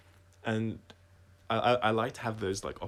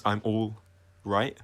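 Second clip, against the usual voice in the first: halting, breaking up mid-phrase; slower than usual. Shown as a demonstration. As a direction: pause before "right", voice cracking. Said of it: "but it's broken".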